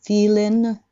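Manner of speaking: "feeling" ending in a lightly released N; light final N. Shown as a demonstration. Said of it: "軽くNは、". (「feeling」の語尾に軽いN)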